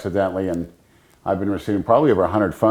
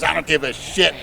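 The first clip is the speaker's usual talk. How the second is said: higher, louder retold shout at the doorstep; angry neighbor; 6 semitones higher, 3 dB louder than usual. Neighbor turning away visitors, imitated high angry shout. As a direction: bark it like the hothead next door, pitched up.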